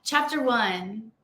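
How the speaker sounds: slow, measured title read; pretend book dictation. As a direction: announce it as a book opening. Pretends to begin dictating her book.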